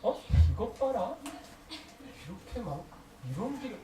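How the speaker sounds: mock scolding. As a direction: act out an offended scolding, lightly. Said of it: "이러면서 하나님이 막 혼내고". (가볍게 혼내는 척)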